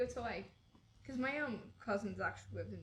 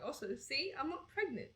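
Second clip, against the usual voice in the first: retold friend, higher, rising insistence; friend's pointed announcement; 4 semitones higher than usual. Friend texts a pregnancy test, pointed and higher. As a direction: quote her a bit higher, setting the record straight. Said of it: "And she just sent me".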